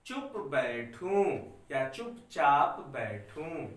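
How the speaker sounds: slow, spaced-out reading for the class to follow; slow dictation. Shown as a demonstration. Teacher dictating Sanskrit lines to students, slow and clear. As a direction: spell it out slowly so children can write along. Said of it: "मैं धीरे धीरे बोल रहा हूं बच्चों".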